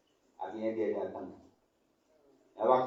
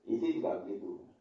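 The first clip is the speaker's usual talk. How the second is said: ordinary talk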